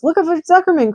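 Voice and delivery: high, loud gander yell; a gander calling the pig over. A narrator's reading. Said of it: "cried the gander".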